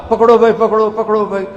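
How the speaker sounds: loud, high call across a street. Acted. Prophet calling people to catch Husain, loud high call. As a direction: call out so the crowd hears.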